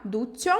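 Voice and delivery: ducho with a clear ch like tch; ducho, the ch hit firmly; Spanish ch. Shown as a demonstration. Teacher showing the ch sound in ducho. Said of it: "pronuncia o C H".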